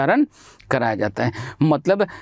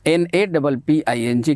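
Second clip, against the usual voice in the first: slow spelling out; slower than usual. Shown as a demonstration. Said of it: "के आई डी".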